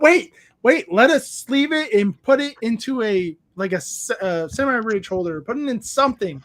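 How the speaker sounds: retold panic at the card show; urgent alarm. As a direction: stop her before she grabs the card. Friends urgently stopping the girl.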